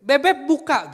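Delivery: loud, high-pitched call; wife calling out. Retold or imitated. Wife repeats the call to her child, loud and high. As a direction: mimic a mother shouting at the door. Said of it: "lalu berkata begini".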